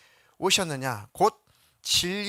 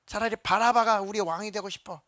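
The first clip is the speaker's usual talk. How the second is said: higher, louder demand stressing 바라바가; crowd shouting; 6 semitones higher, 4 dB louder than usual. Retold or imitated. Crowd shouting for Barabbas, 바라바가 stressed loud. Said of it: "막 소리를 질러 말하기를".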